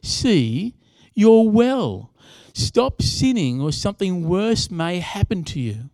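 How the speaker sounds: solemn, weighty warning with firm emphasis; ominous warning. Acted. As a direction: deliver it as a grave pronouncement. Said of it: "says to him these ominous words".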